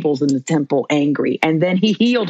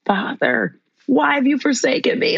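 anguished cry; 9 semitones higher than usual. Retold or imitated. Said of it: "what does he say".

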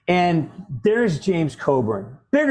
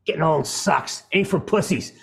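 lightly imitated old actor brushing off pain; a hint of a heavy old star's voice; James Coburn. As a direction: shrug it off as the ageing star. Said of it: "He goes".

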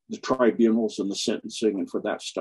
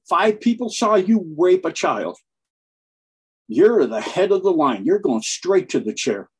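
louder, higher deadpan joke delivery; retold comedian's punchline; 7 semitones higher, 5 dB louder than usual. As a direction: land the comedian's bit with a punch. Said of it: "He said".

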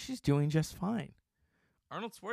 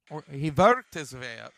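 "worked" said as "vorked" with an Austrian V; light Arnold-style Austrian "worked"; Austrian accent; 2 semitones lower, 6 dB louder than usual. Retold or imitated. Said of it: "He came here from Austria".

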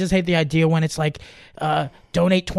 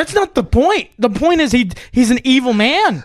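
exasperated retort; 4 semitones higher than usual. Retold or imitated. Retelling outburst at grandma.

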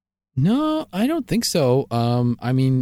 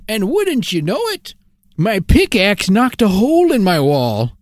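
lightly voiced old prospector comic; folksy old miner telling a joke; 4 semitones higher than usual. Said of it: "old prospector does a tight five".

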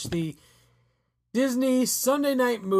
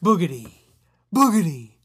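silly clown; 7 dB louder than usual. Pretend. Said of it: "You sound like a clown".

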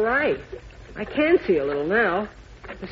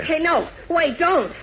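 frightened; 6 semitones higher, slower than usual. Acted. Jimmy threatened with a knife.

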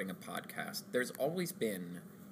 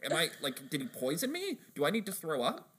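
higher, mock-panicked cartoon customer; lightly voiced paranoid customer; 6 semitones higher than usual. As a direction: fret like a guy sure he's been poisoned. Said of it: "this guy was gonna beat the crap".

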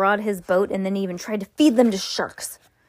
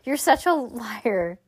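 slow laughing accusation; laughing tease; 4 semitones higher, slower than usual. Real, not acted. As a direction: tease them, half laughing. Teasing child with a laugh.

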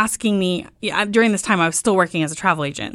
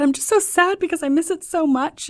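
much higher, whiny imitation of herself missing Tuscany; mock sad whine; 11 semitones higher than usual. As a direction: replay her own teary lament, half-joking. Crying wife answering husband.

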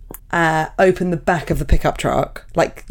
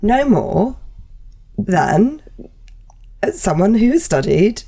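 pointed mock apology; 5 semitones higher than usual. Voices a rebuke to a vaccine doubter.

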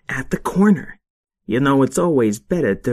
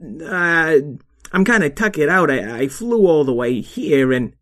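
higher, stammering little weasel; flustered weasel voice; 4 semitones higher than usual. Acted. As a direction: caught in a lie, flustered. Stevie flustered.

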